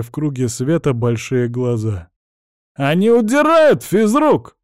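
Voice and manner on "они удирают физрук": put-on a boy's sudden high alarmed cry; shouting. A narrator's reading. Boy shouts to the teacher as the kids flee, in alarm. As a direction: yell the warning up high. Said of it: "крикнул Динамо".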